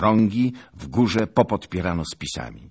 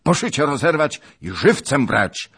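higher, louder command; shouted order; 9 semitones higher, 8 dB louder than usual. Acted. Bohun ordering his men to take him alive, loud. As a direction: order them fiercely. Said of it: "krzyknął".

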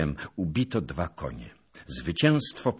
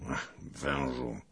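slow, lowered murmur; muttered remark; 4 semitones lower, 7 dB quieter, slower than usual. A narrator's reading. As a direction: mutter it slowly, half to yourself. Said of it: "i mruknął".

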